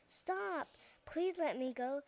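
small mouse begging, understated. Acted. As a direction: plead with the lion to be let go. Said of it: "she begged".

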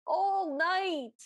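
drawn-out mimicked chorus echo; mock chorus of prisoners; prisoners chiming in. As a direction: echo it slowly like fellow prisoners joining in. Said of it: "all the other prisoners chime in".

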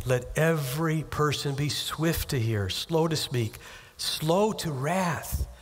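slow, deliberate verse; measured scripture reading. Real, not acted. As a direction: dwell on every slow. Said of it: "quoting James, slowed".

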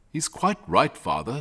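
lightly voiced sensible mother; a hint of a placid country mother. Mother backing her son to father, sensible.

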